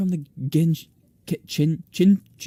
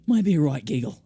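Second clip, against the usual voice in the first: trying out a cheeky English accent; English character accent; 6 dB louder than usual. Shown as a demonstration. Narrator auditions a voice for the guide, English accent. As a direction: say it as a British lad would. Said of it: "I think I'll give him that voice".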